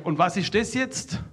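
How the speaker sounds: loud, slow, high call across; shouted question. Retold or imitated. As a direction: call it over slowly so they hear. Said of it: "Schrei ich wieder rüber".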